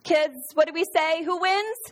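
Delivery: high, loud, sweet Sunday school teacher. Shown as a demonstration. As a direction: sing it out like a children's teacher. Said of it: "In your best Sunday school voice".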